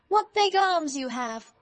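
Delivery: high, loud, drawn-out amazement; amazed. A narrator's reading. Girl marvels at grandmother's arms, high amazed exclamation. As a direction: marvel slowly, pitched well up.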